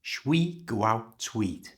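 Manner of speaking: "Shwi go out tweet" said slowly, words linked; "Shwi go out tweet" blended together; slow linked pronunciation. Shown as a demonstration. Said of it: "You try".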